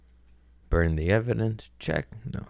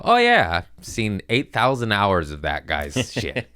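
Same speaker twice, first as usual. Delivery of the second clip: mock surprise; 2 semitones higher, 3 dB louder than usual. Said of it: "they show me and go".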